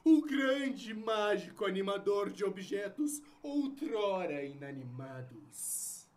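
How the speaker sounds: ringmaster. Acted. Magician announces his act.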